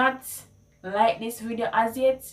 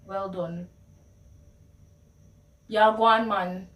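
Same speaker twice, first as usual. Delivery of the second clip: encouraging Patois praise; Jamaican Patois. Shown as a demonstration. Praising a friend, in encouraging Jamaican Patois. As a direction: cheer them on in Patois. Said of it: "How would I say that in Patois".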